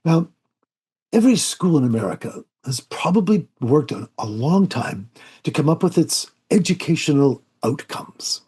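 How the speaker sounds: a gentle English accent, lightly imitated; a light hint of a soft-spoken English educator. Bremer answering Studs Terkel's question, lightly imitated soft English accent. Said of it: "he said in his very soft English voice".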